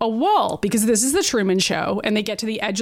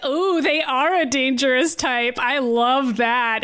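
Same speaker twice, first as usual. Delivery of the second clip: slow, drawn-out creepy admiration; leering villain; 3 semitones higher, slower than usual. Retold or imitated. To the hero, a slow leering mock villain. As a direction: savor the danger like a creep. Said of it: "he's like".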